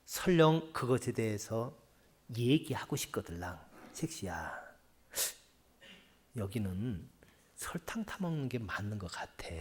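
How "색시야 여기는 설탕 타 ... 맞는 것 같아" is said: softer, lower gentle suggestion. Shown as a demonstration. Husband gently suggesting sugar to his bride, soft. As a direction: suggest it kindly, no pressure. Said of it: "그냥 그렇게 얘기해야 되지".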